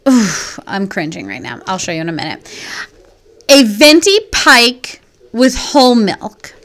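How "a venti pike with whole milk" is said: slow, drawn-out article read; changed reading voice. Real, not acted. Host reading the snack article aloud, put-on reading voice. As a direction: read it out slowly and deliberately. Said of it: "I've changed my voice now".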